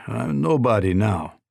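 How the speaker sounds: slow, dry echo of the words; snorting colonel. Acted. A lightly voiced colonel mocks the governor, slowly. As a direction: throw his own words back at him, slowly.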